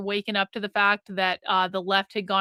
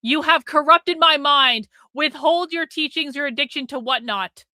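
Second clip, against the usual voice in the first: mock dramatic reading; 4 semitones higher, 5 dB louder than usual. Reading a super chat dramatically.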